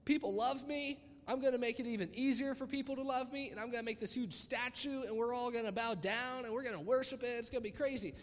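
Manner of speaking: lightly acted boastful excitement; boastful king. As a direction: play a king pleased with his big idea. Playing the king boasting about himself.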